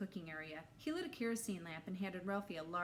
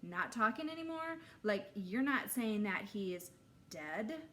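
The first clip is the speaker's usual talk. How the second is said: higher, louder worried question; alarmed question; 3 semitones higher, 5 dB louder than usual. Acted. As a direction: blurt it out in shock. Scared kid asks about death.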